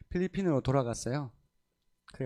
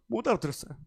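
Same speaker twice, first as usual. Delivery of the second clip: 못 알아들었어요 said through a laugh, quick; 8 semitones higher, 3 dB quieter, faster than usual. Real, not acted. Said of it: "물론 못 알아들었어요".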